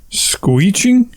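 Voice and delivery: "screeching" as a high, rising "SKWEE-ching?"; queried made-up word. Acted. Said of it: "screeching and squealing at the same time".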